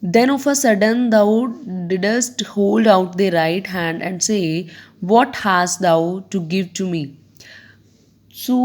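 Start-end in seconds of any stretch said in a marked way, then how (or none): 0.0-7.0 deliberate classroom recitation; poem recitation. Acted. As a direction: start raised and space the phrases out. Reads the poem aloud.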